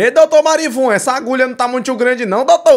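hammed-up needle fear; mock fearful patient. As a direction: plead with the doctor over the needle.

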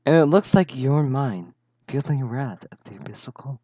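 soft-spoken, casual villain menace; silky polite villain. Acted. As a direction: purr the threat calmly and quietly. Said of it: "You sound so soft-spoken".

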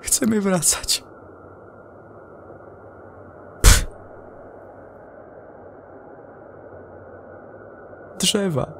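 unraveling crewman begging to come home; panicked astronaut. Acted. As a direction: hysterical astronaut over the radio. Astronaut panics about apple trees.

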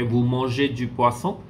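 "Vous mangez du poisson" with a rise on "poisson"; questioning intonation. Shown as a demonstration. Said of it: "It is actually in intonation form".

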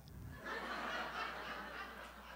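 silent, wheezing high laugh; high breathless laugh. Real, not acted. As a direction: laugh so hard no sound comes out. Laughing at her mother's reply.

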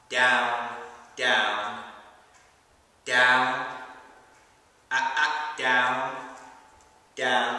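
low, loud, stern commands; firm dog command. Real, not acted.

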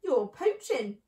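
indignant rat's protest; mild shriek. Acted. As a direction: accuse them in a restrained shriek. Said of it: "shrieked Rat".

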